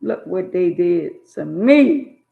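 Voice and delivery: mournful preached cry; slow loud lament. Acted. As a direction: cry it out, stretched. Quoting God, slow loud take.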